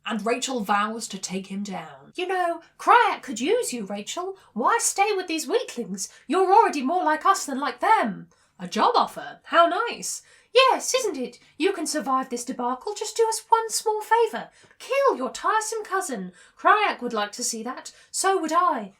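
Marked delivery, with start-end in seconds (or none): 2.2-8.3 high, loud, theatrical villain wheedling; scheming tempter villain. Acted. Voices the Drode's tempting offer. 8.6-10.2 high, loud mock delight; mock-pleased retort. Rachel's retort to villain's offer. 10.5-18.9 high, loud, theatrical villain wheedling; scheming tempter villain. Acted. Voices the Drode bargaining.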